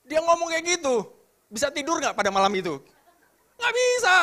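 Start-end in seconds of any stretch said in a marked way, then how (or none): 3.6-4.2 emphatic. Real, not acted. Emphatic answer to own question.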